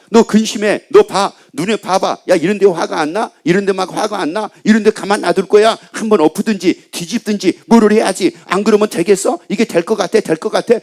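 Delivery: a hint of a taunting tempter; mild mock devil goading the listener; devil tempting. Preacher voices the devil tempting.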